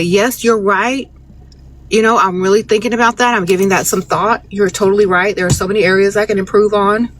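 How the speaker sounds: sweet fake agreement. Shown as a demonstration. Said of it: "Y'all supposed to say".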